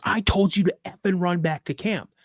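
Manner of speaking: retold exasperated command; angry order. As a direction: scold the kid for stopping. Dad angry at boy stopping.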